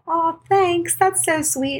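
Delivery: high-pitched, touched thank-you; retold sweet thanks. Patient thanking the nurse on her birthday, acted sweetly pleased.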